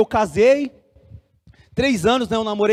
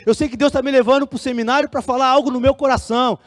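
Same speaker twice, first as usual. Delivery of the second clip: slightly raised, insistent pleading; retold protest; 3 semitones higher than usual. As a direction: argue your case to the pastor. Jovem contesta o pastor. (protesto insistente, reencenado)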